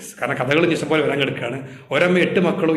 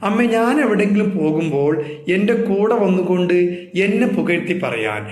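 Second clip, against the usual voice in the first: put-on child son pleading; 4 semitones higher than usual. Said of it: "noun ഒരിക്കൽ പറയുക തന്നെ ചെയ്തു".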